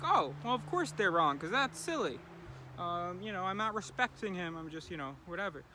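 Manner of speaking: sarcastic voice mocking a trainer's view; mocking retort. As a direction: scoff like it's obviously wrong. Mocking the rival trainer's reply.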